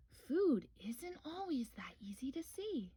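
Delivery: hushed, gentle grandma; soft grandma voice. Acted. Grandma explaining to Little Bear, hushed and gentle. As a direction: breathe it softly like a wise old bear. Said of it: "replied Grandma".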